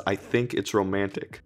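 put-on British accent. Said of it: "she says it in a British accent".

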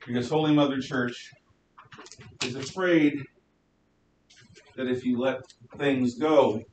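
muffled behind a mask; through a face mask. Real, not acted. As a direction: speak through a cloth mask. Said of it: "I'm not used to speaking behind a mask".

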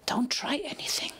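hushed whispered warning. A narrator's reading. Quirky warns Applejack under her breath, whispered. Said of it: "Quirky whispered".

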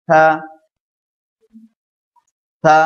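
থা said with a soft, light t; a gentle breathy থা; soft tha. Shown as a demonstration. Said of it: "নরম করে বলুন". (নরম করে থা)

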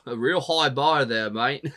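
slipping into an Australian accent, slow; a slow Aussie drawl creeping in; accidental Australian accent. Real, not acted. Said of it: "I don't know where the Australian accent came from".

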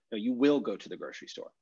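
"will" given a firm falling accent; stress on will. Shown as a demonstration. Teacher showing emphatic future, "will" stressed. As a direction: insist with "will". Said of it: "Then it's emphasizing the place".

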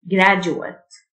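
Graduate with a "j" sound for DU. Shown as a demonstration. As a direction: teach Graduate as "grajet". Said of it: "الديو تنطق الجه".

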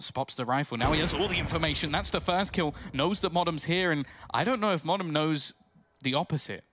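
lively esports play-by-play call; esports caster. Real, not acted. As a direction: build tension as the clutch unfolds. Live play-by-play, rising tension.

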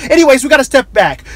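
lightly mocked commercial announcer; radio ad read. Host cutting straight to a windows commercial, ad voice. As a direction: switch into a cheesy ad pitch. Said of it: "he goes right into this commercial".

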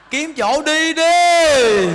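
slow, loud, drawn-out urging; a preacher calling old women to leave home, loud and slow. Acted. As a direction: stretch every word and push it out loud. Urging again, louder and drawn out.

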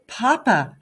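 loud high shout of Papa. A narrator's reading. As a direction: call out his name, certain now. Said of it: "I shouted".

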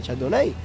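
Chardonnay ending in "nei"; viewers' version. Shown as a demonstration. Streamer conceding the viewers' way, Chardonnay ending "nei". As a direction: say Chardonnay with a glide on the last syllable. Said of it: "ustedes dicen".

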